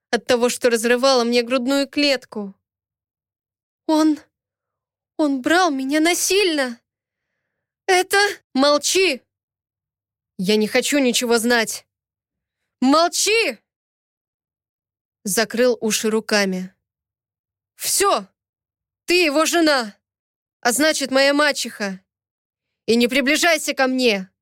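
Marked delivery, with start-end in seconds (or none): 3.9-8.2 higher, anguished protest; pleading to be believed; desperate protest. Acted. Heroine desperately explains. 8.5-24.3 cutting her off in anger; angry silencing. Acted.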